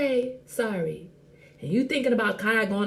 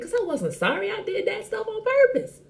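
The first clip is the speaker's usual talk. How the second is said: laughing confession; 12 semitones higher than usual. Real, not acted.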